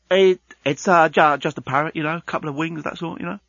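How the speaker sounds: nervous, faltering workman; stammering worker. Acted. Worker stammering out feeble explanation.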